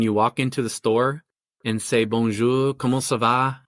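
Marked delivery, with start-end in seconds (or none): 2.0-3.6 bad French accent. Shown as a demonstration. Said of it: "pardon my bad French accent from high school".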